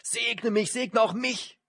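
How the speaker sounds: high, loud desperate begging; high pleading wail; bitter pleading cry. A narrator's reading. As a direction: beg for the blessing, crying out. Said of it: "schrie er voller Bitterkeit laut auf".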